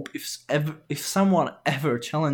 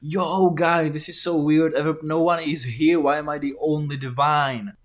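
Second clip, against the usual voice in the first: loud, higher-pitched puzzled god calling to mortals; bewildered lone god; 4 semitones higher, 5 dB louder than usual. Acted. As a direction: hail everyone loudly, comically baffled. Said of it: "he's gonna be like".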